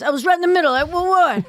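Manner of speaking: high startled stammer; shocked. Acted. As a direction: thrown mid-scene, stunned. Acting shock at the implants.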